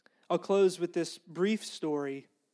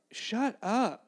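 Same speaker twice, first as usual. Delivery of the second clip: Holy Spirit voice; 4 semitones higher than usual. Acted. Holy Spirit cutting off the preacher's seminary mind, mock-exasperated. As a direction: cut in with a higher-pitched, firm interruption. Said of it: "if the Holy Spirit talks like this".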